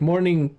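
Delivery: "morning" ending in an exaggerated k; failed attempt. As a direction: imitate someone trying "morning" and still saying "mornink". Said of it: "even when she tried".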